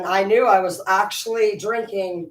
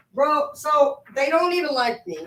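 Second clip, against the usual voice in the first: exasperated shout; 6 semitones higher than usual. Real, not acted. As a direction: shout it out in disbelief. Venting about in-laws, shout heard.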